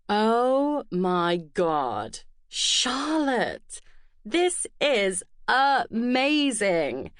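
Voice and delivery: put-on gushing mid-Atlantic accent, slow and high; drawn-out delighted mid-Atlantic girl. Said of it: "her mid-Atlantic accent".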